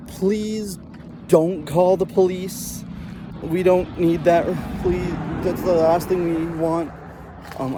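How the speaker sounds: lightly voiced mom pleading on the phone; a hint of a begging mother. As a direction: mom on the phone begging the dentist not to call the police, mild mock pleading. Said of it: "all I heard was her saying".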